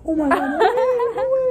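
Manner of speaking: high-pitched mock astonishment with laughter; feigned shock. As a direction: act shocked, as if you had no idea. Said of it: "act like I had no idea the entire time".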